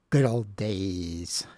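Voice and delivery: slow words around a small burp. Real, not acted. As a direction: let a little burp slip out. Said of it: "I just had a burp there".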